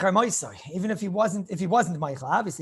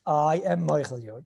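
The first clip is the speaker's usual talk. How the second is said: sincere forgiveness; 4 semitones lower than usual. Shown as a demonstration. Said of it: "he just wants you to say the words".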